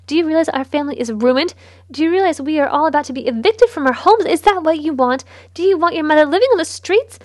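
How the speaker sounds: loud, shrill-edged tirade building up; screeching. Acted. Mother screeching at her son about ruin, loud. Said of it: "She was screeching now".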